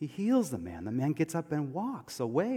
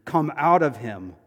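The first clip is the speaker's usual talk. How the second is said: firm, louder order; stern command; 5 dB louder than usual. Retold or imitated. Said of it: "Jesus says sternly".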